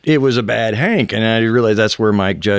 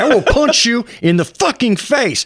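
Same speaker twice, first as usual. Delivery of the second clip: imitating daughter; 14 semitones higher than usual. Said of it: "That was my daughter".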